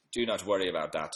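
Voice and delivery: lilting touch of a Welsh accent; slightly Welsh accent. Real, not acted. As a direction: slip a bit into Welsh. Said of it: "Don't know what that accent was".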